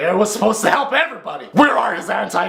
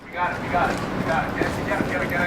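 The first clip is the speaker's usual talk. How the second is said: much softer urgent orders; tense whisper; 3 semitones lower, 7 dB quieter, much faster than usual. Acted. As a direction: hush it like a raid. Soldier whispering to team.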